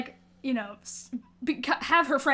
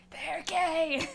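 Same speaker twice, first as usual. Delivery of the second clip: louder declaration; 3 semitones higher, 6 dB quieter than usual. Retold or imitated. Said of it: "I'm like".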